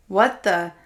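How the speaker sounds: sudden loud surprise; jolted by a blow; startled outburst. Acted. Plate hits him.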